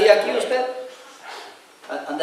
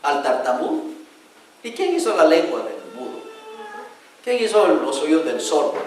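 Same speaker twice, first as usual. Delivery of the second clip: stern God; 5 semitones lower, 4 dB quieter than usual. Acted. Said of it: "dijo Dios".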